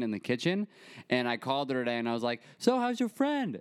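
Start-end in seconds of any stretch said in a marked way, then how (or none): 2.6-3.6 high, slow singsong question; retold teasing question. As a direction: ask it high and drawn out. Retold phone call to grandma.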